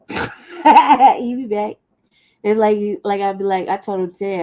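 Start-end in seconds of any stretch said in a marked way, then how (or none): 0.1-1.8 slow laughing repeat of He'll be back; laughing, drawn out. Shown as a demonstration. Teasing that Jesse will return, laughing slowly. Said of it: "repeated laughing slowly".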